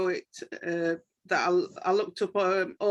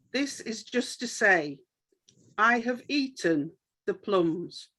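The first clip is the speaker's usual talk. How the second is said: measured verse reading, pausing after each line; understated, unhurried recital with pauses; poem reading; slower than usual. Acted. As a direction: read the poem plainly, line by line. Reads a published poem.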